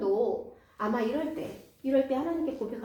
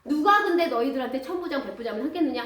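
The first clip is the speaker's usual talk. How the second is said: bitter complaint; 5 dB louder than usual. Acted. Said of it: "막 신세한탄을 하면서".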